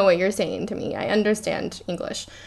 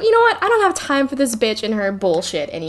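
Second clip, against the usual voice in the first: fed-up Hermione; 3 semitones higher, faster than usual. Retold or imitated. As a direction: voice Hermione losing patience, pitched way up. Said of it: "she's just like".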